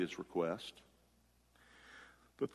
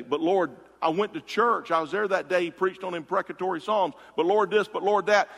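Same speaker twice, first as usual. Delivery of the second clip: mock complaining; 5 semitones higher, 4 dB louder than usual.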